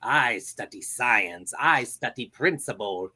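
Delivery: a lofty little scientist lecturing; Dexter impression. Dexter scolding his sister about science, high and haughty. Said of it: "here we go".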